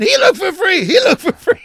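high, loud imitation of a heckler; mock yelling. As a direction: yell it like a persistent street pest. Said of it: "starts yelling at him again".

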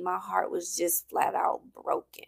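whisper. Real, not acted. Recalling painful breakup.

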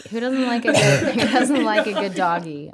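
slow delivery broken by laughter; laughing. Real, not acted. Friend defending her dirty joke to co-hosts, laughing. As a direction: stretch the question out through giggles.

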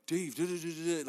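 high-pitched babbling fan imitation; mimicking eager fans. Mimicking fans who mistake him.

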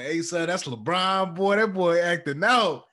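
put-on playful high voice hyping up the baby; talking to baby son.

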